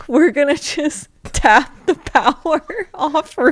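laughing mock divine voice; playing God. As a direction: speak as God, cutting the power. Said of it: "That was God".

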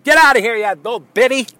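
high, loud mock dismissal; mock yell. Friends mockingly shouting the lady away, high and loud. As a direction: yell her away in jest. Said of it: "We're like".

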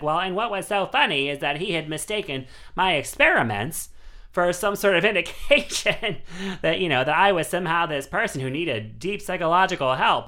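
high, loud nasal Midwestern voice; light imitation of Lynch, chuckling mid-quote; David Lynch voice. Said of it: "that nasal Midwestern voice".

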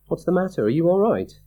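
urgent concern for a friend; frightened check on a screaming friend; anxious. A narrator's reading. Narrator calls to screaming friend.

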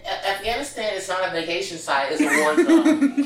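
laughing. Retold or imitated. Retelling her own amused reply.

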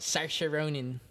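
Saoirse Ronan in a light Irish accent. Shown as a demonstration. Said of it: "you gotta say it in an Irish accent".

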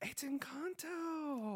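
"It's Encanto" breathed in a hushed, slow whisper; dramatic whisper. Acted. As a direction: whisper "Encanto" like a big secret. Gasped whispered verdict.

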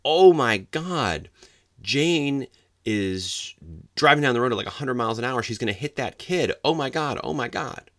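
high, loud, terrified screaming; frantic cry of alarm at a party; panicked scream. Retold or imitated. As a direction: shriek it out like you see a crash about to happen. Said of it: "John screams out".

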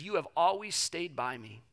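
put-on father gently answering his older son, tender. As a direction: comfort your resentful son. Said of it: "He says".

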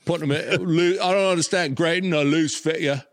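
attempted British accent, amused; best UK accent. Mimicking a British collector grumbling about cased figures, amateur UK accent. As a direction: have a go at a UK accent. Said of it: "Here's my best, uh, in, uh, U K".

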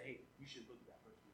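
fast hushed tempter whisper. Retold or imitated. Preacher voicing a tempter whispering to the listener. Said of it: "whisper in your ear".

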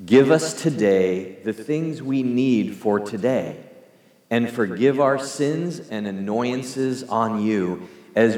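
unhurried, measured congregational praying; slow prayer. Real, not acted. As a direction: read the prayer slowly, phrase by phrase. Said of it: "let's read it slowly".

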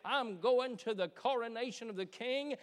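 building to a loud, excited declaration; excited preaching. Real, not acted. Preacher telling the congregation he has a ticket to the coronation, excited. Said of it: "Excuse me while I get excited".

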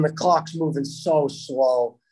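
slow, drawn-out telling of a dragging clock. Retold or imitated. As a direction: stretch it out slowly. Drawing out the tense final seconds.

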